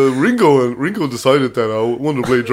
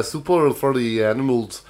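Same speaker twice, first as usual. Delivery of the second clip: slow, lower mock Welsh accent; 4 semitones lower, 5 dB quieter than usual. Trying the hard one, slow tentative Welsh accent.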